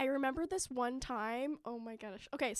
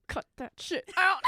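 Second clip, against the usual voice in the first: mildly exasperated order, pitched up; retold telling-off; 6 semitones higher, 4 dB louder than usual. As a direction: tell off your friend in mock annoyance. Re-enacting telling friend to stop.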